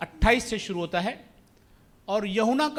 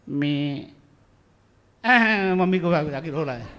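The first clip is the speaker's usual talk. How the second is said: lightly mimicked child freezing on stage; mock a tongue-tied kid, ending in a loud wail; nervous child; 3 semitones lower, 5 dB louder, slower than usual. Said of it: "कई बच्चे आते हैं इधर, बोलते हैं".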